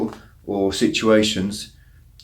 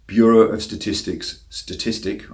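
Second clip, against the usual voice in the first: careful, slowed-down articulation; deliberate, slow pace over a tongue-twister; slower than usual. Real, not acted. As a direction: take the tricky words slowly to get them out cleanly. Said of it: "I had to say that slowly".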